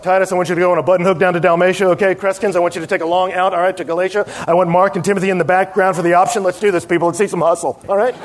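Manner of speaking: lightly voiced coach barking out plays, a bit fast; a hint of a sideline coach firing up the team; football coach calling plays. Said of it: "He looks like a coach calling plays".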